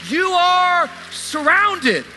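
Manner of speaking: high, slow, drawn-out proclamation; shouted declaration. Acted. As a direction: declare it like a cheering crowd from heaven, stretching each word. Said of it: "they're shouting at you".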